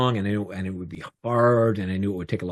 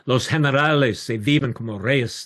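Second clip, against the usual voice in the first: imitated soapbox speech in Spanish; mildly raised, emphatic oratory; fiery orator; 4 semitones higher, 3 dB louder than usual. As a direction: declaim it to the crowd. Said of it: "make fiery speeches".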